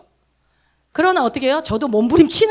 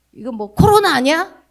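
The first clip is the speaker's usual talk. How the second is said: louder worried mock question; 3 semitones higher, 5 dB louder than usual. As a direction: imitate the fretful asker. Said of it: "아, 이거 했는데 안 되더라". (걱정스럽게 흉내 내는 질문)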